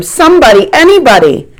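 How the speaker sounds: high frantic shout for anybody. A narrator's reading. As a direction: call to anyone within earshot. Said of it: "shouts the man".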